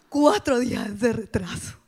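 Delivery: slow, tearful and near crying; slow teary disbelief; choked up. Retold or imitated. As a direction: let the voice break a little. Emotional realization, crying sound.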